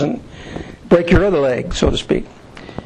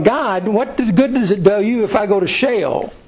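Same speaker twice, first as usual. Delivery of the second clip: a slightly higher, slower, earnest plea to God; pleading with God; 4 semitones higher than usual. Retold or imitated. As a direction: beg God, bargaining mildly. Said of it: "And they're going".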